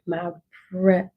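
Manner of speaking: normal talking voice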